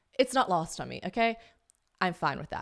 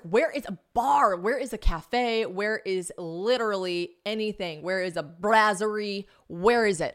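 mock desperate searching; 3 semitones higher, 4 dB louder than usual. Acting out desperate hunt for bar.

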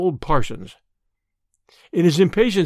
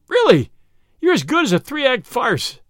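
much higher, louder gleeful yell; delighted yell; 9 semitones higher, 4 dB louder than usual. Acted. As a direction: crow with delight at the trick. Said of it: "Flambeau yelled with delight".

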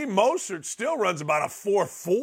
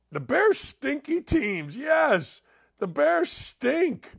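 mock proclamation; 6 semitones higher, much slower than usual. Declaring the Bears stink.

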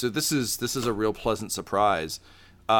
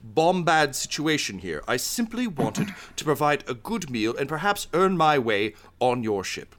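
higher-pitched, formal and apologetic chef; earnest chef's plea; 5 semitones higher than usual. Acted. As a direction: plead your case politely to join the crew. Chef pleads his case to crew.

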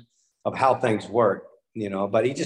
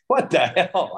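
mock indignant outburst, pitched higher; exasperated, slightly louder retold reaction; retold disbelief; 5 semitones higher, 4 dB louder, slower than usual. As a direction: replay a stunned "what the hell" with a laugh behind it. Acts out shock at being released.

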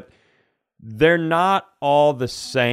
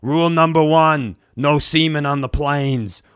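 put-on haggard old instructor; 2 semitones higher, 4 dB louder than usual. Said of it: "haggard eighty-year-old woman walks in".

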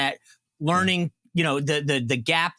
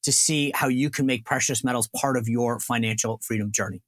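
upbeat, lower-pitched pitchman read; live ad read; 8 semitones lower than usual. Acted. Host reading a sponsor ad to listeners, pitchman voice. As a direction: sell it to the listeners like a radio spot.

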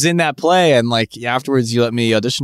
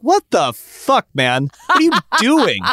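much higher, mock-baffled celebrity; Matt LeBlanc; 12 semitones higher than usual. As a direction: play him freaked out by the weird fan. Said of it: "He'd be like".

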